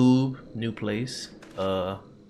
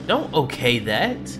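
spooked and shaky; 4 semitones higher, 7 dB louder, slower than usual. Real, not acted. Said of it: "I am beyond scared right now".

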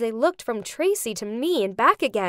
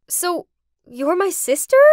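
higher, louder astonished question; a touch of stunned disbelief; gasped; 6 semitones higher, 5 dB louder than usual. A narrator's reading. Kathy learns Tracy is her half-sister, gasped. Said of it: "I gasped".

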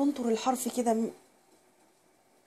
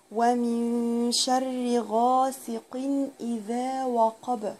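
each syllable stretched out; slow recitation; much slower than usual. Shown as a demonstration. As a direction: recite slowly and evenly. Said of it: "teacher recites verse". (تلاوة بطيئة)

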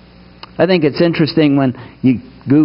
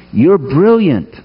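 said like you mean it; slower than usual. Shown as a demonstration. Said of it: "I'll say it like you mean it".

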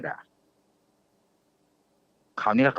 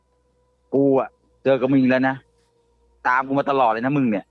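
slow, menacing male voice of the possessed woman; man's voice; slower than usual. Retold or imitated. Husband retelling what the spirit said, in a slow menacing man's voice. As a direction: drag it out like a strange man speaking through her. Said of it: "พูดเป็นเสียงผู้ชาย".

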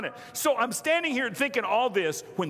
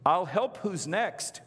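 slow, drawn-out service call; counter girl; slower than usual. Retold or imitated. Girl behind the counter calling the next customer, slow mimicry. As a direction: lightly mimic a trained counter line. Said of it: "the girl behind the counter goes".

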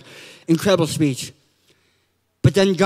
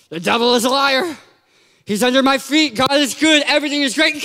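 forced confidence; 3 semitones higher than usual. Acted. Churchgoer pretends to be okay, forced confidence rising. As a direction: pretend all is fine, building in pitch. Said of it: "Pretending that we're okay".

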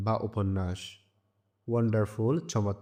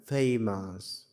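ফেমাস with weight on its first syllable ফে; stress on ফে; much slower than usual. Shown as a demonstration. Teacher showing which syllable to stress, ফে stressed in ফেমাস. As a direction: lean into ফে in ফেমাস. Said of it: "জোর দিয়ে পড়তে হবে".

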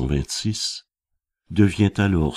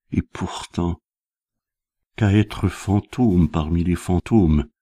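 poem recitation. Acted. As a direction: recite the poem phrase by phrase, letting the last words fade. (récitation de poème, posée, entrecoupée de pauses)

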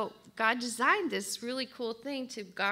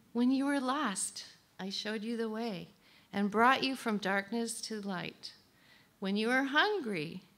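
reading song lyrics. Acted. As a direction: read the song words tenderly.

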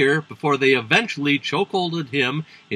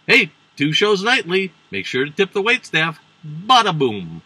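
lightly hammed-up lounge comedian patter; hint of club comic; 4 semitones higher than usual. Comedian signs off a joke to the club crowd, as a lightly put-on hack comic. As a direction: toss it out like a corny stage comic.

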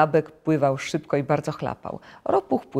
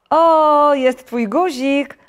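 high, loud, stretched cry of discovery; calling out; 10 semitones higher, 9 dB louder, much slower than usual. A narrator's reading. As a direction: exclaim with a long, excited O. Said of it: "zawołał żabek".

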